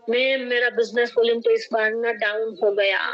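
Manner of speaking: lightly hammed-up letdown, sagging in pitch; mock dejected complaint. Imitating a downline's dejected complaint. (मायूस शिकायत की हल्की नकल)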